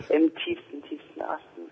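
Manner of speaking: giggling through the words; breaking into breathy laughter; laughing. Real, not acted. Laughing at her own hometown.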